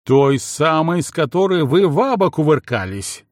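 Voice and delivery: громкий злой крик; ори на мужа, не сдерживаясь; заорала. Acted. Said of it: "заорала Елена". (Елена орёт на мужа из ревности)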